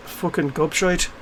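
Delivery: attempted Irish lilt; Irish accent. Shown as a demonstration. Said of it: "difficult to master the Irish lilt".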